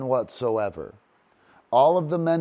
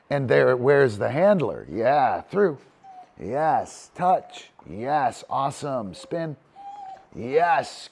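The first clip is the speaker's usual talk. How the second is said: loud, bright praise calls; excited dog cues; 3 dB louder, slower than usual. Real, not acted. Trainer praising his dog mid-exercise, excited calls. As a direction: cheer each move the dog makes.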